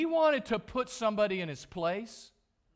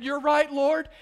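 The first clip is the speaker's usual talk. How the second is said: higher, louder voicing of Job giving in; humbled Job; 7 semitones higher, 9 dB louder than usual. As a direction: Job conceding, pitched up and loud. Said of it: "Job has said".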